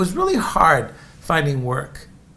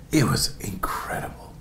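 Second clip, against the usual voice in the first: whisper; 5 semitones lower, 6 dB quieter than usual. Real, not acted. Hushed aside about the past.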